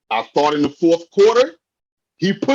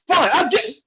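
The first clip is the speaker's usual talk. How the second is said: yelling; 10 semitones higher, faster than usual. Real, not acted. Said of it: "I'm yelling again".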